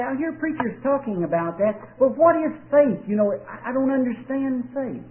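voicing a confused listener; mock doubter. Preacher voicing someone puzzled about faith. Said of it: "They say".

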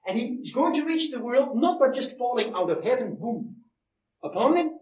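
punchy preacher's conclusion; emphatic preaching. Real, not acted. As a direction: count the points out with conviction. Preaches the closing point.

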